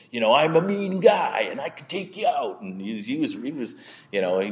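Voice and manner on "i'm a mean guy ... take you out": high shouted mock threat; imitated threat. Stranger threatens preacher at the depot, mock shout. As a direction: play the tough guy picking a fight. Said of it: "he was telling me".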